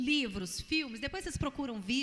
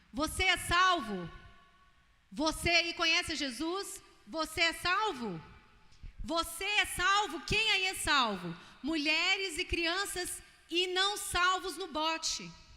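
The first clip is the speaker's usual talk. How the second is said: high, slow, raised shout calling out; 6 semitones higher, 4 dB louder than usual. Retelling a man on a sinking ship calling out: imitating someone shouting. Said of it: "Ele começa a gritar".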